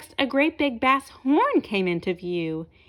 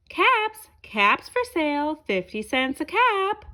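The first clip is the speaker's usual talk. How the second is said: 1 calling out; 6 semitones higher than usual. Acted. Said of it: "he began to call out".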